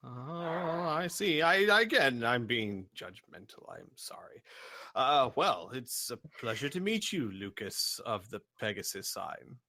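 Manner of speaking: apologise, then welcome a guest formally as a giant; a hint of a polite, contrite giant; courteous giant. Giant apologises, then greets Lucas.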